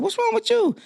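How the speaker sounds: very high, puzzled squeal of concern; high-pitched, baffled check on a sibling; retold alarmed question. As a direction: re-enact being thrown by someone's tears. Retold startled question to crying sister.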